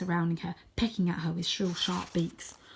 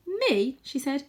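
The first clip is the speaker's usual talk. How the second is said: scared; 7 semitones higher, 4 dB louder, slower than usual. Acted. Tam frightened at the plan.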